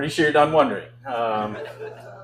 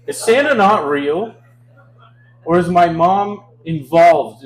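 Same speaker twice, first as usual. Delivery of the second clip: higher, slower baffled question; confused disbelief; 4 semitones higher, 7 dB louder, slower than usual. Retold or imitated. Comic as a confused kid questioning Santa, baffled. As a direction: let the disbelief stretch out.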